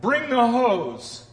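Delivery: joking aside. Pretend. Joking alternative, comic slow.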